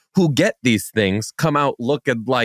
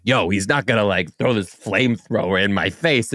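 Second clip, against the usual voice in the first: lower-pitched mock Staten Island talk; imitated Staten Island accent; 5 semitones lower than usual. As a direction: lightly mimic a Staten Island patient. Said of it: "because of the accents".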